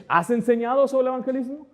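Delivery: high, pointed retold question; challenging question. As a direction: quiz a rash colleague pointedly. Retold challenge to young pastor.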